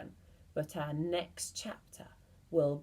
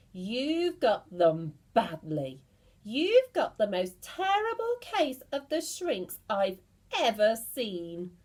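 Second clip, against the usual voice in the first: gloating warning; 4 dB louder than usual. Acted. Mr Twit frightening his wife.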